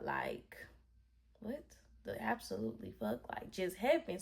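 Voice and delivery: hushed, stunned disbelief; quietly re-voice being lost for words; stunned shock. Retold or imitated. Driver reliving the shock of being choked, stunned and hushed. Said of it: "I'm in shock mode".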